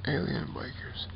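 breathy joking whisper. Real, not acted. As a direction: slip it in as a whispered joke. Joking aside about UFO bikers.

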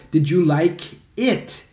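slow Did you like it with a rising end; correct version. Shown as a demonstration. Teacher models the correct question slowly for students. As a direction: ask it slowly and clearly. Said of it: "Você tem que falar".

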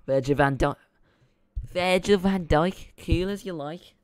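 loud, drawn-out mock Scouse accent; terrible Scouse accent. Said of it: "It's a terrible Scouse accent".

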